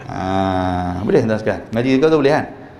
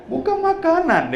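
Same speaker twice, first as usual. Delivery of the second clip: high squeaky exclaim of "Bukan makanan"; hammed-up shocked foster mother; mock Arab mother; 12 semitones higher than usual. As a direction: jump way up for the foster mum's protest. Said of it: "dia kata kat anak kita".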